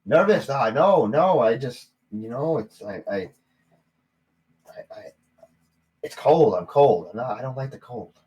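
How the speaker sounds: nervous, stammering denial; acted jittery evasiveness. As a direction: stumble over excuses, trailing into stammers. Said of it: "you seem like a nervous sort".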